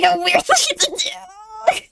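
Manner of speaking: giggling through the words; laughing. Real, not acted. Laughing as she apologizes to the driver.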